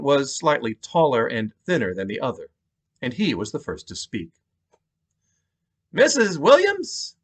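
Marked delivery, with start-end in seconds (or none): 5.9-7.2 slow, high-pitched New York detective; thick New York cop accent. Acted. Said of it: "He had a thick New York accent".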